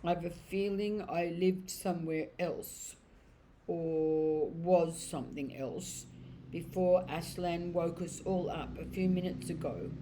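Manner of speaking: slow, puzzled horse voice; very slowly. Acted. Horse slowly answering the crowd, muddled and unhurried. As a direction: drag each thought out like waking from a dream. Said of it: "said Strawberry very slowly".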